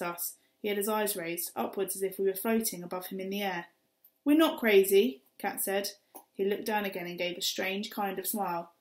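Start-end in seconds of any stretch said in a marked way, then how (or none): 4.2-5.2 loud, indignant denial; indignant protest. Acted. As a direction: push back hard at the insult. Kat protests to the man.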